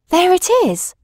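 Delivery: exulting Watson; excited cry. Acted. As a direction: cry out in triumph. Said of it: "I cried".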